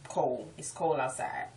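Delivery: "cold" as COLE; local pronunciation. Shown as a demonstration. Local showing the dropped D, "cold" as cole. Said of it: "We don't even say the D".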